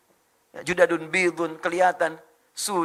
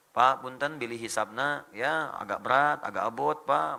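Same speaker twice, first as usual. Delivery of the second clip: lower, deferential Sundanese-tinged request; gentle polite reminder; 4 semitones lower, 4 dB quieter than usual. Acted. Citizens reminding their representative, gentle polite tone. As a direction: remind an official kindly and respectfully. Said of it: "Ingatkan dengan baik".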